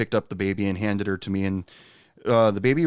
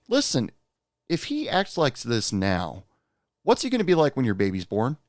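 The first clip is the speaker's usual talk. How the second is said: fatherly lecture; 3 semitones higher than usual. Retold or imitated. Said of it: "I sound like my dad".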